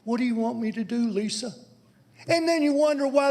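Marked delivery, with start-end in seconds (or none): 0.0-1.5 mocking quote. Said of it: "he comes in here and he says".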